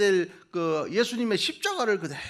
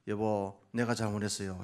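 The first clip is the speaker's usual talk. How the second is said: humble apology; 9 semitones lower, 5 dB quieter than usual. Shown as a demonstration. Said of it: "한쪽에서 하면 이렇게 해보세요".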